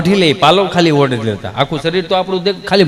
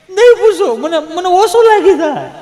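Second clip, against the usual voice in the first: mock tearful man; 12 semitones higher than usual. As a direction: play the weepy grown man begging her not to ask. Gabho choked up, pleading. (ગળગળા અવાજે, ઊંચા સૂરે રડમસ નકલ)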